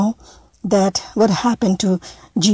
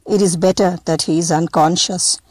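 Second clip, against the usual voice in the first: gently; 3 semitones lower than usual. Acted. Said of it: "he said gently".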